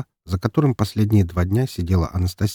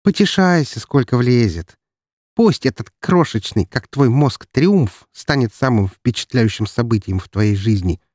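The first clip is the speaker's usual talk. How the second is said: haughty villainess threat; lightly voiced menacing rival; 2 semitones higher than usual. Зловеще произнесла она.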